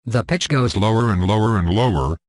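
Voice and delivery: sinking gradually through the sentence; pitch falling. Shown as a demonstration. Tutorial giving an example of the pitch, pitch falling. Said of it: "Let's hear an example of the pitch".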